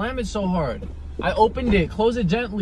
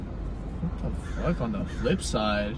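whispered disbelief; 12 semitones lower, 8 dB quieter, slower than usual. Acted. Hearing odd goodbye phrase.

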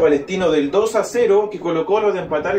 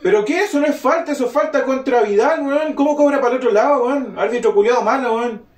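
furious fan; 5 semitones higher than usual. Real, not acted. Fan furious at referee call.

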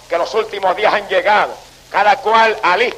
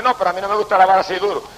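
mocking quote; 3 semitones lower, much faster than usual. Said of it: "Hay evangélicos que dicen".

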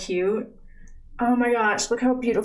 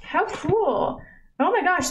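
high delighted exclaim; 9 semitones higher than usual. Real, not acted. Opening the lip oil.

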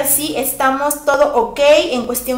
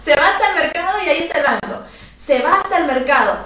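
rushed directions; 4 semitones higher, 3 dB louder, much faster than usual. Retold or imitated. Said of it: "simplemente dice".

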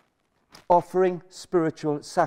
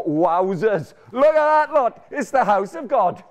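mock-amazed exclamation; amazed gasp; 3 semitones higher, 5 dB louder than usual. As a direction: marvel out loud at the crowd. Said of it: "walk into the lecture theatre and go".

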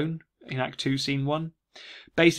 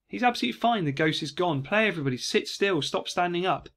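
relieved; 4 semitones higher than usual. Retold or imitated. Relieved Macbeth paraphrase.

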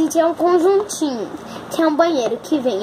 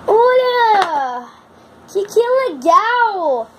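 excited squeal; 6 semitones higher, 3 dB louder, much slower than usual. Real, not acted. Girl delighted unboxing a toy.

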